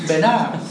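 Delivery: "Benares" as two syllables, be-NARS, last E silent; pronounced without the accent. Shown as a demonstration. Teacher showing the word without its accent, two-syllable be-NARS for "Benares". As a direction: say "Benares" as be-NARS, stress at the end. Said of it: "Si le quitas el acento francés".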